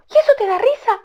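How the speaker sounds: high whispered scolding; high sharp whisper; whispered reproach. Acted. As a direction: hiss the question at the silly bird. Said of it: "Rikitiki dijo".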